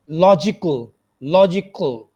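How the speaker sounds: लॉजिकल with क running straight into a dark ल; no schwa before L. Shown as a demonstration. Teacher models लॉजिकल, no schwa between क and ल. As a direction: close क onto ल in लॉजिकल, no vowel between. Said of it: "ख और ल के दरमियान शुआ साउंड नहीं".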